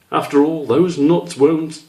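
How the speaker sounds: a hint of a scolding mother, slow at the end; mother nudging her son outdoors, mildly; lightly voiced mother. Mother telling Squish to go gather nuts, lightly voiced.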